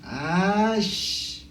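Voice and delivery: put-on drawn-out sulky kid. Kid sulking at the elder.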